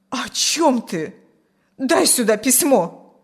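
slow, stern, insistent demand. A narrator's reading. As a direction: order him to hand it over. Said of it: "Вмиг посуровила она". (сурово, требовательно)

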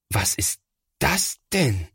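slow, stunned question; dismayed big brother; shocked. A narrator's reading. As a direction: take in the damage slowly. Thomas finds the scribbled wall.

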